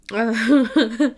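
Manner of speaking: swallowing then speaking; just swallowed a sip of water; after a sip of water. Real, not acted. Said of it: "ignore me as I drink water".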